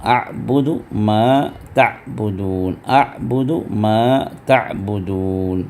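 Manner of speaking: slow recitation stressing the ain; tajweed drill; ain practice recitation. Shown as a demonstration. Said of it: "یہاں پڑھیں گے".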